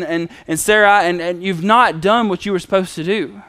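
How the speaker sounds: mildly heated complaint to God; frustrated, angry Abram. Retold or imitated. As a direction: let frustration build into an accusation. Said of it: "Abram is, is angry. He's frustrated".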